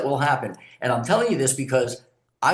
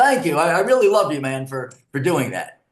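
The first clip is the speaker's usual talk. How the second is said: very sarcastic, mocking, louder; 5 dB louder than usual. Showing how to answer a screaming driver in traffic: very sarcastic. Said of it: "very sarcastically".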